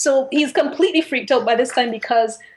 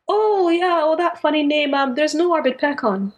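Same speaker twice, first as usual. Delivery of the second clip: high, amused retelling of her reply; laughing Miss Sycorax; 5 semitones higher than usual. Retold or imitated. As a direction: play her lightly, pitched up and breezy. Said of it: "starts to laugh and says".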